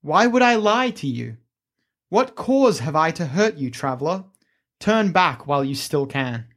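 ominous inscription voice; creepy caretaker. Acted. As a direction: warn them off like a ghostly keeper. GM reads inscription voice.

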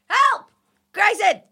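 loud, high-pitched cry for help; high, urgent yell; screaming for help. Acted. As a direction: scream out to a friend to save you. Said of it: "scream out to Grayson".

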